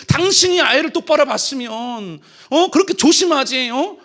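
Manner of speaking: blaming wife. Retold or imitated. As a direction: snap the blame at her. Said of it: "이 남편이 못됐죠".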